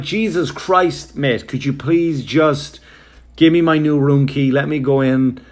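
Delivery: high, slow exasperated plea. Retold or imitated. Guest begging the clerk for a key, exasperated. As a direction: drag out the exasperation. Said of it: "I'm like".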